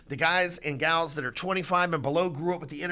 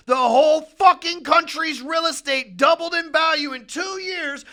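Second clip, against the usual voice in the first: much louder and higher, real rant; furious rant; 7 semitones higher, 6 dB louder than usual. Real, not acted. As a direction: shout it out in disbelief. Ranting about rates and prices.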